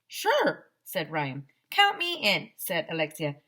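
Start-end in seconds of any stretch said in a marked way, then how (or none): 0.1-0.7 eager yes. Acted. Ryan eagerly agrees. 1.7-2.5 eager. Acted. Alexia eagerly joins.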